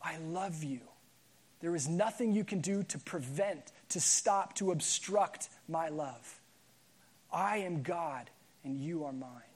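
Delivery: slow, hushed and reassuring; tender voice of God. Acted. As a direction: speak it gently, like a loving father claiming a child. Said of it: "God looks at us and says".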